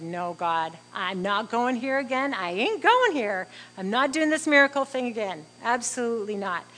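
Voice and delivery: loud, emphatic protest, building as it goes; anxious refusal. Retold or imitated. Mother telling God she won't hope again, anxious protest. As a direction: retell digging your heels in, anxiously. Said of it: "oh, anxiety just filled me".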